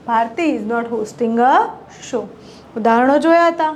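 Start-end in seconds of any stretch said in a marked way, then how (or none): 0.1-2.2 very slow, clear dictation of each English word; teacher modelling English slowly; slow model sentences. Shown as a demonstration. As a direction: spell the sentence out slowly for learners. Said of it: "ચલો વાક્યો જોઈએ મિત્રો".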